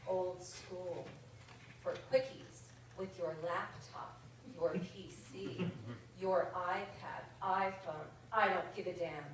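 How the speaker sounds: measured, rhythmic verse reading; comic poem read to an audience. Acted. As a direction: read the light verse line by line, savouring rhymes. Reads a comic poem aloud.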